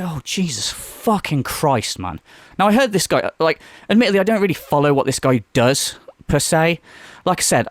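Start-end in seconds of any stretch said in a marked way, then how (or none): 0.0-2.2 slow, soft, weary disbelief; exasperated groan. Retold or imitated. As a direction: drag it out like you can't believe it. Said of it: "I'm just like".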